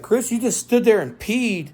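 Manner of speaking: high, loud amused woman's voice; imitating Natalie laughing. Girlfriend laughing at him, high loud mock voice. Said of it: "She's like".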